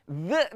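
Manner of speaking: "Z" as a voiced th with a stray short vowel; bouncing echo sound. Shown as a demonstration. Teacher showing the error, "Z" with an added echo vowel. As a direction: let "Z" bounce off the tongue. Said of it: "Z tu tak mau".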